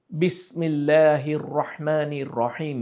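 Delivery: বিসমিল্লাহির রহমানির রহিম recited slowly, drawn out; slow recitation. Shown as a demonstration. Teacher reciting Fatiha for students, slow and measured. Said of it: "এখানে সিন use হচ্ছে".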